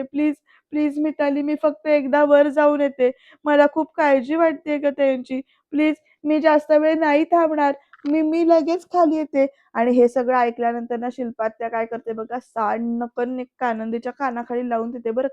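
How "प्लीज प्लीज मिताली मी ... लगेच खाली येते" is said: imitated anxious begging, pitch lifting towards the end; retold tearful pleading. Anandi begs to go upstairs, retold tearful pleading. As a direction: plead as if close to tears. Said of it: "तर आनंदी रडत म्हणते".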